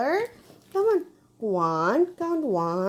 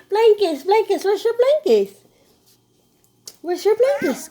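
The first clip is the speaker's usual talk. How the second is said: coaxing high; 7 semitones higher, 4 dB louder, much faster than usual. Real, not acted. Coaxing baby to blow kiss.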